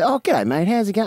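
parroting a broad Aussie greeting; Ocker accent. Retold or imitated. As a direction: echo it back in broad Australian. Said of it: "I'd repeat exactly back to them".

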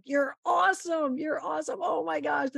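playing partner raving over a great shot; excited. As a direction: cheer her on like a thrilled caddie. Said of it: "He is so excited".

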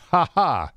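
a playful spoken laugh; mock bear laugh. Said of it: "if bears could laugh".

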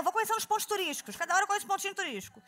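fast, eager sightseeing rush; rushed tourist. Retold or imitated. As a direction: rattle off the sightseeing plans. Imitando turista apressada. (turista apressada, falando rápido e animada)

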